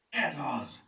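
high, loud cry of discovery; excited shout. A narrator's reading. Furmány finds what's needed in the first-aid box, excited shout. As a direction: call it out, thrilled. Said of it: "kiáltotta".

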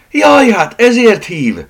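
loud, high, drawn-out exclamation; slow, high shout of surprise; excited cry. Acted. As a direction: cry out in sudden realisation. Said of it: "kiáltotta Eleonóra".

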